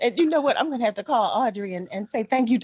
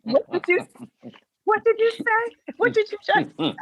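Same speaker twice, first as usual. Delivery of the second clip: higher, halting "what did you say"; retold incredulous reaction; 11 semitones higher than usual. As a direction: imitate friends who can't believe their ears. Retold girlfriends' baffled reaction.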